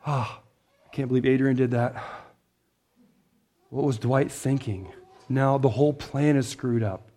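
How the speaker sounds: mock dismay. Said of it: "God's not going like an".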